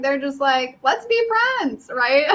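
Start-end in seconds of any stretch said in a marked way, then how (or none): 0.8-1.9 put-on high-pitched, eager child's invitation; imitating a little girl, sing-out friendly. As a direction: pitch it way up like a small kid. Voices friendly little girls.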